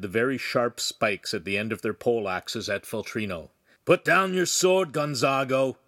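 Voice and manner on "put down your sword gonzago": loud, high commanding call; calling out an order. A narrator's reading. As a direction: order a man to disarm. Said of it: "the officer called".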